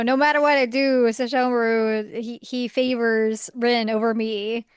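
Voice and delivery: lightly hammed-up woe, stretching the words; mock self-pitying Jaka. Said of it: "Jaka goes through a whole thing".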